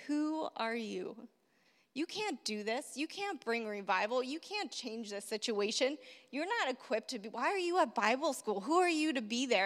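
quiet discouraging voice. Retold or imitated. Discouraging voices quoted in sermon.

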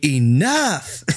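mildly boomed, drawn-out command; booming yell. Acted. Player casting Thaumaturgy on squabblers, half-hearted booming yell. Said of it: "using the big boom voice effect".

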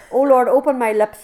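loud, high cry of "Deliver me"; pleading aloud to God in the sermon; fervent plea. Acted. Quoting the psalm fervently.

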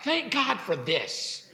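soft, slow thank God for this; quiet thanks. Shown as a demonstration. Preacher repeating the grateful reply softly. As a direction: let the thanks settle, quietly. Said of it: "rather than".

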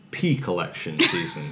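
"pea collection season" with the k moved onto "collection"; misheard word break. Shown as a demonstration. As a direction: run "pea" straight into "collection". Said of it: "when you say it really fast, it sounds like".

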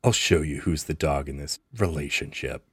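low growled threat; growling. Acted. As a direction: growl it low under the breath. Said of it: "he growls and he's like".

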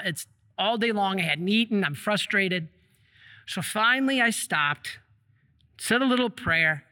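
normal talking voice

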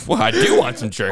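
high, polite Charlie voice; high-pitched Charlie voice. Retold or imitated. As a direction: chirp it like a begging dog. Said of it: "He's like".

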